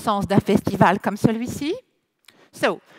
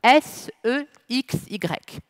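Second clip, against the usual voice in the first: spelled out; slower than usual. Shown as a demonstration. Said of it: "si mon accent français en anglais n'est pas trop".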